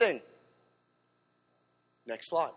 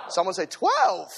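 shouted call; 4 dB louder, slower than usual. Real, not acted. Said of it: "call and response, building".

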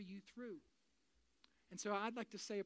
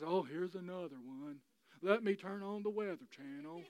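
resigned; 2 semitones lower than usual. Acted. Imagined person used to storms, resigned. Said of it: "you're not resigned to it".

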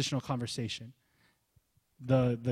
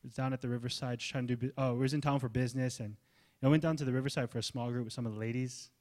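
unexcited casual testimony; 3 dB quieter than usual. Retold or imitated. Pastor imitating a bland testimony, offhand and quick. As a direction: shrug it off like nothing happened. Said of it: "Lydia's might have sounded like this".

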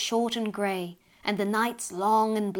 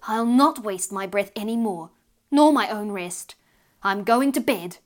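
grumpy mother; 5 dB louder than usual. Acted. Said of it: "she grumpily climbed".

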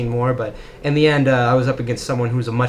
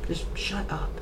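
mock dismissive; 6 semitones higher, 8 dB quieter, slower than usual.

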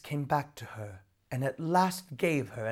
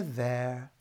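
soothing; 3 semitones lower, 5 dB quieter than usual. Acted. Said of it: "Nora soothed".

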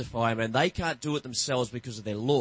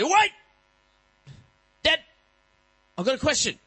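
put-on child's voice; 12 semitones higher, 6 dB louder than usual. Child stalling dad at bedtime.

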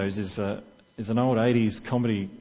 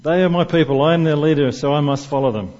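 the whole room parroting him back, loud; colleagues echoing; 2 semitones higher, 7 dB louder than usual. Retold or imitated. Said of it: "all the other guys in the room go".

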